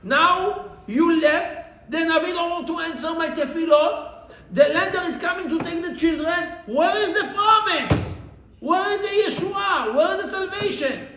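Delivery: high, loud anguished wail; screaming and crying. Retold or imitated. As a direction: demand where the promise went. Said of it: "she was screaming and crying".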